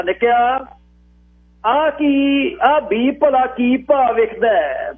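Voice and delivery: put-on high, drawn-out old man's question; high-voiced elder calling to a youngster; old man asking. A narrator's reading. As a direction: ask it as a village elder, pitched high. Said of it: "ਬਾਬੇ ਨੇ ਪੁੱਛਿਆ".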